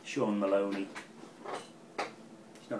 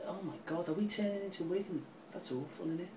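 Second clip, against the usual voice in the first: mock horror; 8 semitones higher, 5 dB quieter, faster than usual. Real, not acted. Horrified at their form.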